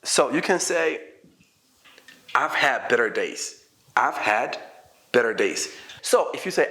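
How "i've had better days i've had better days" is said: low, slowed downbeat reply; mildly dejected model answer; not so good. Shown as a demonstration. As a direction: admit it slowly, voice dropped low. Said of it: "this one is not so good".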